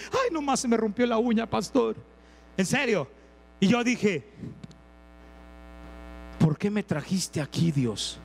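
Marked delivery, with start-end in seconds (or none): 0.1-2.0 hammed-up pampered complaint; mock whine. Mimicking pampered girl's complaint. 6.4-8.2 low, hushed question to God; puzzled prayer. Retold or imitated. Pastor's own prayer retold.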